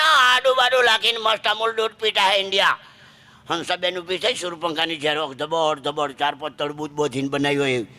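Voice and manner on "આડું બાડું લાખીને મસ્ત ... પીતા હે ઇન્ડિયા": raised-voice Surti holler; calling out. Acted. Surti husband ordering tea from his wife, hollered. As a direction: keep yelling the tea order to your wife. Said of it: "એના વાઇફને બૂમ પાડી".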